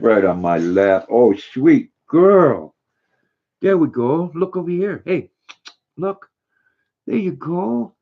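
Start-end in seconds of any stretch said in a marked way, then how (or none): 1.1-4.3 slow, drawn-out coo; cooing to the dog. Real, not acted. Owner cooing slowly at the dog on his lap. 4.3-8.0 high, soft coaxing; high pet talk. Real, not acted. Owner coaxing his dog to look, high and soft.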